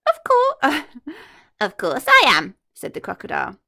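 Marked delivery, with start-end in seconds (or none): 0.1-2.6 much higher, louder gleeful laugh-talk; laughing villain. Acted. Crocodile laughing at the hippo, gleeful. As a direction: cackle your answer.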